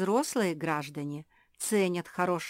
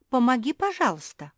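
higher, louder plea; pleading; 6 semitones higher, 5 dB louder than usual. A narrator's reading. Josie begs William to help, pleading. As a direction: beg for help. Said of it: "взмолилась Жози".

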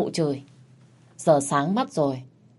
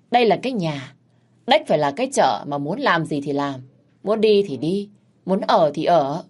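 scolding to her face. Acted. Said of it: "chửi thẳng mặt".

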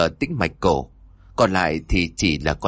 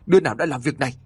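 raised anguished cry; roar; 6 semitones higher, much faster than usual. A narrator's reading. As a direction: cry out in grief and rage. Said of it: "rồi gào lớn".

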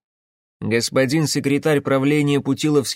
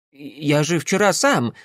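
babbling; 2 semitones higher than usual. Acted. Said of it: "залепетал Гунькин".

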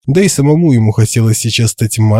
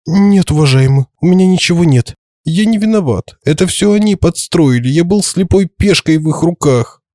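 droning on one note; 7 semitones higher than usual. A narrator's reading. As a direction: drone the excuses on one high note. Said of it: "на одной ноте тянул волшебник".

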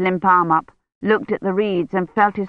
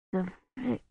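faint feverish breath of a voice, much softer; barely audible; 2 semitones higher, 14 dB quieter than usual. Acted. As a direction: push the words out as if almost unconscious. Feverish patient barely speaking.

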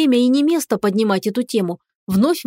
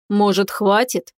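slow weary sigh of annoyance; tired and irritated; slower than usual. A narrator's reading. Dragon fed up with her questions, tired irritated sigh. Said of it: "Устало и раздражённо вздохнул дракон".

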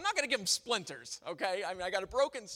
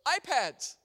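put-on toddler voice; 7 semitones higher, 7 dB louder than usual. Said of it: "looks at that and goes".

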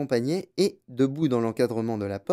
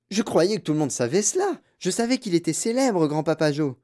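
put-on young boy; 5 semitones higher than usual. Reader voices Charlie answering.

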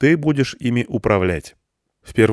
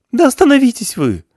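shrill-pitched panicked cry, much higher and louder; hysterical high shout; 7 dB louder than usual. Acted. Irina stops the men from firing, hysterical high shout. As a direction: scream it high to stop them. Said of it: "крикнула истерическим тонким голосом".

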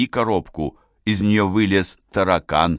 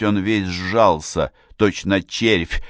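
ordinary delivery, nothing marked

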